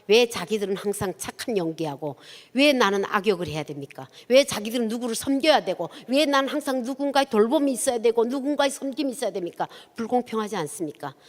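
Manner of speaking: 하나님께 따지던 말을 재연하듯; mock outpouring of grievance, pressing question after question; 따지듯 퍼붓기. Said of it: "하나님한테 퍼붓는데". (억울함을 쏟아내듯 따지는 재연)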